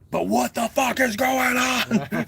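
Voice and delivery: high, drawn-out mock outrage; mock exasperated demand. Customer confronting power company crew, mock outraged. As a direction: stretch it out in hammed-up exasperation.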